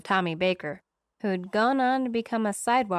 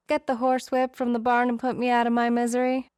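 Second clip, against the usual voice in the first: higher, louder, fast, mock despair; exasperated; 4 semitones higher, 3 dB louder, faster than usual. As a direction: blurt it out in hammed-up embarrassment. Embarrassed, exasperated self-mockery.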